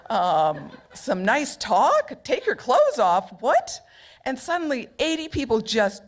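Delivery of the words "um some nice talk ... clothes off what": mock indignant disbelief. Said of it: "I said".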